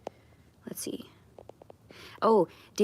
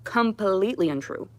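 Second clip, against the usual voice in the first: raised, insistent, hammering each word; heated denial; 5 semitones higher than usual. Real, not acted. Streamer denying she victimized those men, heated and insistent. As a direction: push back hard on the rumour.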